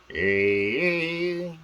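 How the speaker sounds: loud hey. Acted. Loud greeting call before voices.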